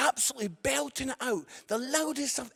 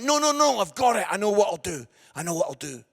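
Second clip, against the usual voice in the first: sudden eureka; 5 dB louder, faster than usual. Retold or imitated. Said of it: "But then I'm like".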